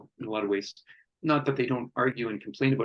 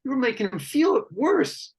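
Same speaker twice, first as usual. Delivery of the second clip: other guys; 11 semitones higher than usual. Retold or imitated. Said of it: "the other guys were like".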